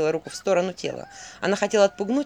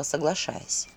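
ordinary delivery, nothing marked

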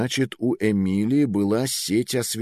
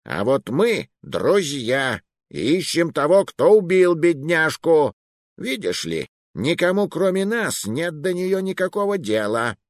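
predatory grin; 7 semitones higher than usual. Acted. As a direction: smile while threatening. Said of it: "с хищной ухмылкой".

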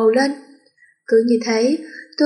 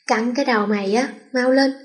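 mild annoyed shout. Acted. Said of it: "Tôi bực mình quát lên".

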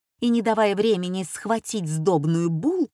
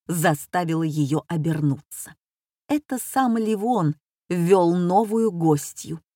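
plain reading voice

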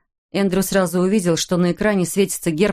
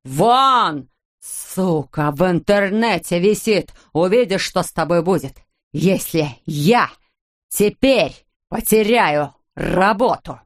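a father raging at his son, lightly performed; furious rant; slower than usual. Acted. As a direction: hammer out each word with a blow. Father rages while hitting son.

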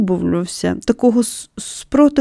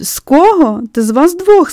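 laughing; 7 semitones higher, 3 dB louder than usual. A narrator's reading. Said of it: "сміючись".

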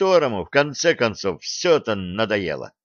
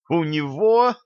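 indignant outcry; 6 semitones higher than usual. Acted. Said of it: "опять взвились девицы".

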